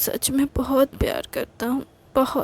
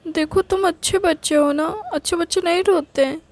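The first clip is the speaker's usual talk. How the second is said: higher, motherly coaxing voice, last line quicker; motherly scolding; 6 semitones higher than usual. Acted. Girlfriend coaxing boyfriend like a mother, higher voice. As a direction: coax him like a mother to a child. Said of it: "बिल्कुल मेरी mummy जैसी बातें".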